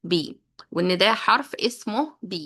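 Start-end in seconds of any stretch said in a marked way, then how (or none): 0.1-0.3 slow teaching repeat. Shown as a demonstration. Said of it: "لازم يبقى عارف".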